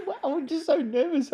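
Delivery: nervous giggling, voice jumping high. Real, not acted. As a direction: laugh through the words, jittery. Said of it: "I'm, like, giggling".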